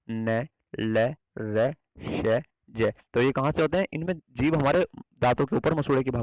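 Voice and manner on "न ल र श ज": "न, ल, र, श, ज" each sounded separately; tongue on the gum ridge for "न ल र श ज"; say along demo. Shown as a demonstration. Teacher asks students to repeat "न, ल, र, श, ज" after him. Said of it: "आप उच्चारण कीजिए मेरे साथ साथ".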